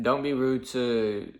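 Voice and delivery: slow, even telling-off; slow firm warning. Retold or imitated. Worker warning a rude DoorDasher, slow and firm. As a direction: spell it out slowly to him. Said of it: "I was like".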